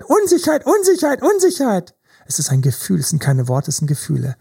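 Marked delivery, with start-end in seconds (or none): 0.0-1.9 much higher, shrieking creature cry; a squeaky alarm call, each word falling; screeching lizard. Acted. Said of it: "die Echse schreit".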